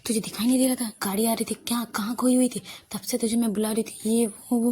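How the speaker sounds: mildly voiced telling-off; scolding. Shruti scolding her distracted friend, mild telling-off. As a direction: scold her with a string of questions, only lightly heated. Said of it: "श्रुति उसे डांटती है".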